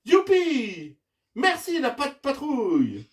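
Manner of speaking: high, loud cheer with drawn falling ends; joyful cry. Acted. Farmer Yumi thanks the rescuers, joyful cry. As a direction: whoop your thanks. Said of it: "s'écrie la fermière Yumi".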